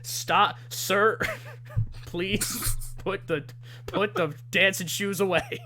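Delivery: mild pleading. Retold or imitated. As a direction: ask him nicely to stop. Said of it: "Stevie's like".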